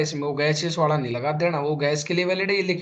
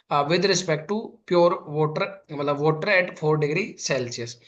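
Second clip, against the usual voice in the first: slow dictation; much slower than usual. Shown as a demonstration. Teacher to class writing the definition, slow dictation. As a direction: stretch every word of the definition.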